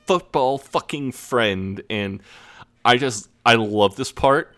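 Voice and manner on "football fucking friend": high, slow mocking farewell; taunting sing-song. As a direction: sing it out, teasing and unhinged. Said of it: "Jay just says".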